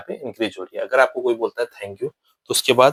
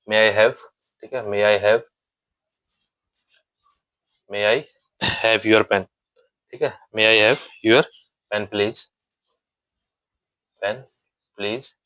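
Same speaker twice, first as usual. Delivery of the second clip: respectful request; much slower than usual. Shown as a demonstration. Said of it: "respect के साथ".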